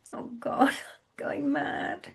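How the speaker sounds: unvoiced frightened whisper; barely breath, going to pieces. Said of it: "she whispered".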